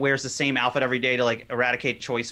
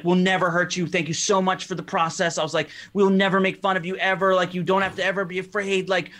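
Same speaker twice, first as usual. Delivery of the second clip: put-on drunken fanboy gushing; 5 semitones higher than usual. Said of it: "I was just like".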